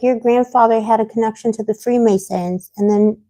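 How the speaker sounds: ordinary delivery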